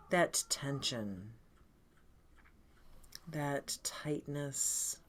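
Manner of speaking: calm, unhurried guided meditation with long pauses; lightly soothing meditation leader, leaving space between phrases. Acted. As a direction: gently guide them into breath and body.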